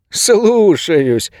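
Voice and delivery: high, drawn-out parody of obedience; mocking mimicry. A narrator's reading. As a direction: ape a meek underling, stretching the word. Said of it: "передразнил охранник Ингу". (передразнивая, высоко и протяжно)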